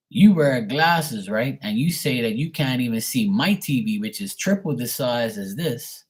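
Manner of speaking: mildly exasperated, incredulous pushback; exasperated retort. Retold or imitated. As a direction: argue the point, emphatic on the openings. Exasperated retort to dad, retold.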